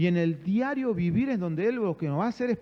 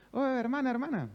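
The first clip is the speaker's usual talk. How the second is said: higher, soft mock call to a sister; retold calling out; 5 semitones higher, 3 dB quieter than usual. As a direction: imitate hailing someone without really shouting. (llamado imitado, agudo y suave)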